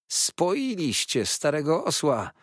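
high angry shout. A narrator's reading. Uriah accuses them, shouting. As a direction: yell the accusation. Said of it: "wołał Uriah".

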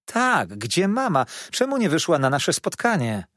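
insist, close to tears; the boy pressing Peggotty about his mother; upset child demanding. Acted. Boy demands answer, near tears.

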